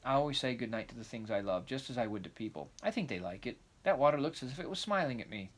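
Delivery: put-on lively, eager young girl; excited girl voice. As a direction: chatter on like a dreamy child. Anne crossing the bridge.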